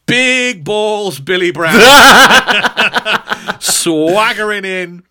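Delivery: laughing through a big announcement; laughing hype. Real, not acted. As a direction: hype him up while cracking up. Hyping a big supporter.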